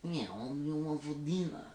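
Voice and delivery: mock French accent. Shown as a demonstration. Accent game with friends, French accent. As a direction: put on a French accent for the question.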